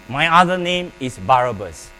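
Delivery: loud declaration. Real, not acted. Congregation repeats aloud.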